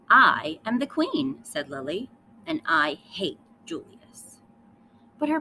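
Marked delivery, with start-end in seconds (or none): 0.1-1.4 loud and slow, chin up, I am the queen; proud queen declaration. Acted. Lily proclaims herself queen to her parents, loud and slow. 2.5-4.4 sulky hate. Acted. Lily states her hatred.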